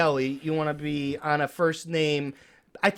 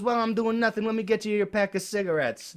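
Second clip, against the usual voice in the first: lightly acted, higher-pitched eager shopkeeper; 6 semitones higher, faster than usual. Deli man serving his favourite regular, lightly voiced, higher eager patter. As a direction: lift the voice, chummy and obliging.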